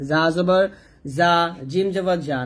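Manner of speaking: "জা" and "জিম" both ending in the same ja; wrong pronunciation. Shown as a demonstration. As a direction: blur za and jeem into one "জা" sound. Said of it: "প্রত্যেকটা উচ্চারণ ভুল উচ্চারণ করছি".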